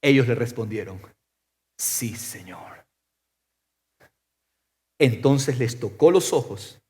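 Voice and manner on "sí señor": very soft, low, slow assent; low, subdued yes; hushed reply. Acted. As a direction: answer quietly, drawing it out. Blind men humbly answer Jesus.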